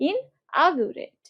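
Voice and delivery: ইনঅগারেট drawn out very slowly; slow teacher demo of ইনঅগারেট; slow pronunciation. Shown as a demonstration. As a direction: model ইনঅগারেট gently for learners. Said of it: "উচ্চারণ কিরকম করবা".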